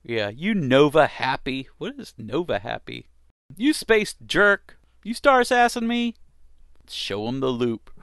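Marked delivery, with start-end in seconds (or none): 3.5-6.2 hammy pirate. Acted. Voicing the pirate's insults.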